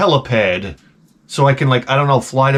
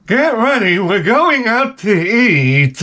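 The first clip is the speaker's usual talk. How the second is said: higher, slow mock-sweet wife announcement; imitating wife; 8 semitones higher, slower than usual. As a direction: do the wife ordering him to get ready, much higher. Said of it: "So my wife".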